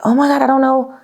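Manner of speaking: imitating her past hopeless self; mock despair. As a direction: rattle it off in anxious despair. Retells despairing inner thoughts.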